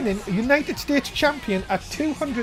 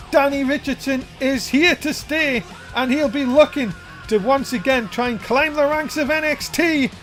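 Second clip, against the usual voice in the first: hyped commentary; 3 semitones higher than usual. Real, not acted. Hyping the winner.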